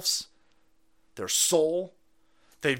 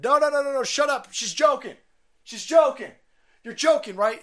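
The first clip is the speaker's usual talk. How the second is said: mock nervous hosts; 9 semitones higher, 3 dB louder than usual. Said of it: "They said".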